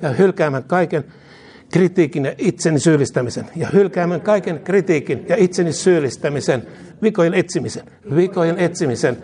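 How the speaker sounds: fervent call-and-response prayer, falling ends; led prayer. Real, not acted. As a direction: lead the congregation line by line, each phrase said twice. Leads repeat-after-me prayer. (esirukous toistettavaksi)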